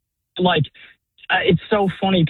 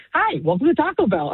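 mock bright drive-thru greeting, higher; a hint of a cheerful ordering bot; cheery AI voice; 5 semitones higher than usual. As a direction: lightly imitate a chirpy robot cashier. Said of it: "this very cheery".

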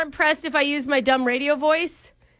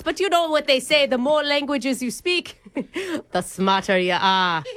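put-on Irish accent; 2 semitones lower than usual. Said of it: "my grandpappy from Ireland coming through".

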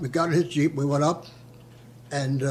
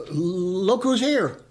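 halting, drawn-out nervous words; slow stammered; 4 semitones higher, much slower than usual. Retold or imitated. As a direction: stumble slowly through it. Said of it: "And I stuttered a little bit".

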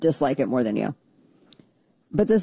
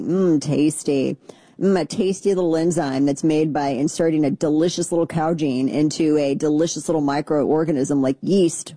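mock relish; 2 semitones lower than usual.

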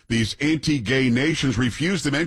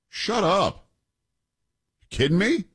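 mock disbelief; 6 semitones higher than usual. Fake surprise.

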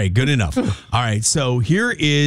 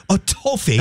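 higher-pitched British "toffee"; mock British; 4 semitones higher than usual. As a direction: echo the word in a put-on British accent. Echoes the British reader.

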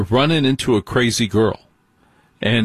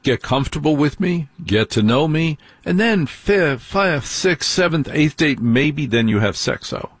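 rising higher through the dates; building excited count; 4 semitones higher than usual. Retold or imitated. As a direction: count them off, getting higher. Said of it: "it's supposed to be".

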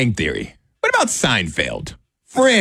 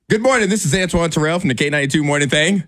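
radio voice; 3 semitones higher than usual. Retold or imitated. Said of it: "that sounded like your radio voice".

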